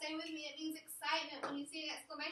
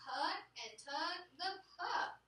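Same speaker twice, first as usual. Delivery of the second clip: slower and higher, lively read for the exclamation mark; with expression; 4 semitones higher than usual. Shown as a demonstration. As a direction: read it like you're excited, slowly. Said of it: "We should have expression".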